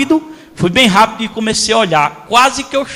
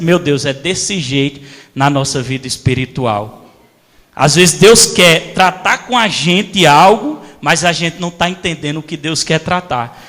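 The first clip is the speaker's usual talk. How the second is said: hushed, reverent inner voice; inner revelation; 6 semitones lower than usual. Retold or imitated. Holy Spirit speaking to heart.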